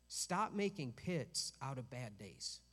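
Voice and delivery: firm, slow, stern command. Shown as a demonstration. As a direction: say it like a stern order. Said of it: "That, that sounds so mean".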